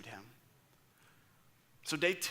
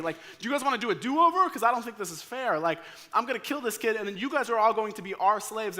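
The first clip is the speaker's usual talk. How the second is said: high, taunting Goliath voice; mocking giant; 4 semitones higher than usual. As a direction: gloat over the puny challenger. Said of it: "Goliath looks right at David and goes".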